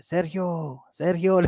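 mock hail with the name stretched; retold calling out. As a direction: imitate a far-off caller, without volume. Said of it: "le gritaban".

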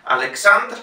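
Alexandr stressed on -andr; stress on the end. Shown as a demonstration.

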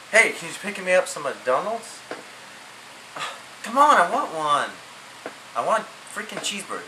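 high, whining plea; whiny begging. Acted. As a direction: whine like a kid wanting a treat. Begging mom for McDonald's.

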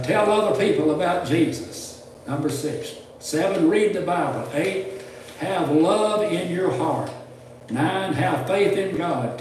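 emphatic, deliberate numbered read-out; steady pulpit reading, punching each item; reading a list aloud. Real, not acted. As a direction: proclaim each point to the congregation. Reads numbered list to congregation.

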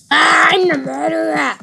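loud playful villain cry; hammed-up murderer yell; mock shout. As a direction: yell it like a hammy killer. Shouts his claim in game.

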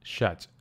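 Щать said alone as the stressed syllable; Щать on its own; stressed last syllable. Shown as a demonstration. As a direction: isolate Щать, the stressed ending. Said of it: "the stress falls on the last syllable".

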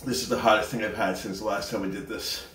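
talking through a burning mouth. Real, not acted. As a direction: hold the heat on the tongue. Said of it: "Top of my mouth is on fire".

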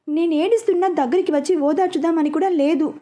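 theatrical mock weeping; overacted crying. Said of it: "ఇంకొంచెం గట్టిగా ఏడవటం".

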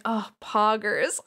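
slow, drawn-out mock sympathy; sympathetic. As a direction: stretch the catchphrase into condolence. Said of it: "All sympathetic".

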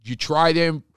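loud, drawn-out, hammed-up Philly accent. Shown as a demonstration. Host showing guest how Philly says her sunglasses, broad Philly accent. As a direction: call out in broad, slow Philadelphia vowels. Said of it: "this is how we talk in Philly".

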